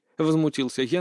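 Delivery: ordinary delivery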